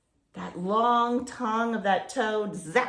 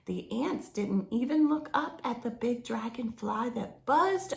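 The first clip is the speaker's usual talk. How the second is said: reading a picture book aloud; story narration. A narrator's reading. Reading a jungle story to children, storybook narration. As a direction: tell the jungle adventure to children, storybook pace.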